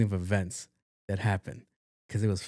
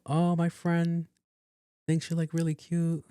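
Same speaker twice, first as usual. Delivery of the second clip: imitated matchmaking friend; 6 semitones higher than usual. Friends putting him on the spot with waitress, mock coy. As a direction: drag it out in a higher, put-on voice. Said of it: "trying to do like that".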